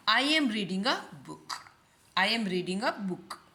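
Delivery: slow, word by word model sentence; careful teacher dictation. Shown as a demonstration. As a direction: say it slowly for students to copy. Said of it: "teacher models sentence slowly".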